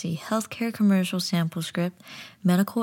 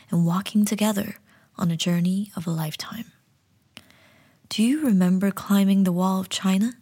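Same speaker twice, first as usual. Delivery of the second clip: commercial voiceover. Acted. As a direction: sell the dream of travel. Reads travel commercial script.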